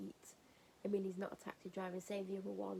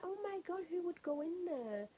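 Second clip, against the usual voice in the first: disgusted disbelief; 9 semitones higher than usual. Retold or imitated. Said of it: "And I'm like".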